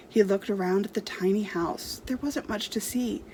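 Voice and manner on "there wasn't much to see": plain reading voice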